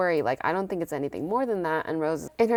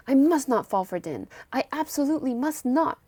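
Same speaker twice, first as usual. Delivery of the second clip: MUST pushed, then higher on "absolutely must not"; emphatic self-warning; 7 semitones higher than usual. Retold or imitated. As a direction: vow it to yourself, leaning hard on "must". Acted firm vow to herself.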